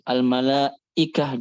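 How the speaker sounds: AL-MALAIKAH with a gap and a forced "ikah"; exaggerated hamzah. Shown as a demonstration. Teacher shows what is forbidden, overdone hamzah in AL-MALAIKAH. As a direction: break "Al-malaikah" before a pushed hamzah. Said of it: "juga seperti itu nggak boleh".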